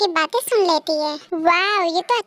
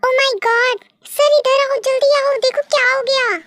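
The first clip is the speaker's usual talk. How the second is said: alarmed call; 5 semitones higher than usual. Acted. Nancy calls the boss to see the burnt papers, alarmed. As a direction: sound the alarm, hurry him over.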